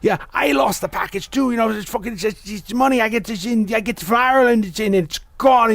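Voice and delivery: imitating the neighbor yelling at nine in the morning; mock yelling old man. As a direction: rant at the door like the angry neighbor. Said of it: "he starts yelling".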